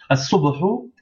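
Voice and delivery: As-subhu with the lam silent and the s doubled. Shown as a demonstration. Teacher showing how the article is read, silent lam in As-subhu. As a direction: skip the lam in As-subhu, straight onto a doubled s. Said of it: "On lit pas le lam".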